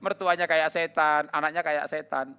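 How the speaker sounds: loud, slow, hammering list; preacher hammering the list loudly; emphatic preaching. Acted. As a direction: pound each kayak setan.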